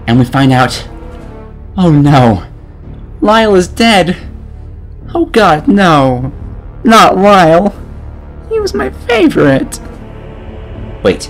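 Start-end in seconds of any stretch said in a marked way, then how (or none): 1.8-7.7 high, hammed-up dismay; mock grief. Narrator pretends to mourn Lyle, mock grief. 8.5-9.8 very high, pitched-up fake mourning; badly faked heartbreak, way up high; mock sobbing grief. Mourning a supposed favorite character, mock grief.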